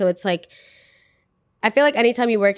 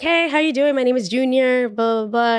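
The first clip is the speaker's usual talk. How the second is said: pitched-up, bright hello of an outgoing guy; voicing Junior's cheerful hello, higher and a bit louder; friendly coworker greeting; 5 semitones higher, 3 dB louder than usual. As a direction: play the eager new friend introducing himself. New coworker Junior introduces himself.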